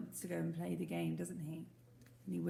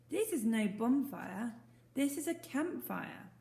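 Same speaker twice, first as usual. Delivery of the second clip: correcting; 5 semitones higher, 4 dB louder, slower than usual. Acted. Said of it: "said the boy".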